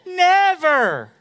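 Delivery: imitating a toddler. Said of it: "three-year-old John Mark".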